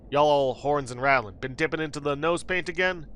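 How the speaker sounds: lightly drawled Western cowboy; mild Southern cowboy drawl. Acted. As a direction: chide like an old ranch hand. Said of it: "Gabby doesn't talk like that".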